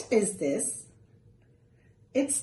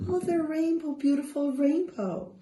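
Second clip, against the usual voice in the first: delighted; 5 semitones higher than usual. Acted. Shows the rainbow to children.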